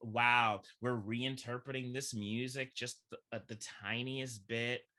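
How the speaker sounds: impressed reaction. Retold or imitated. Audience member reacting to a reinterpreted musical, excited. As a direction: marvel aloud at something new. Acting out amazed reaction to show.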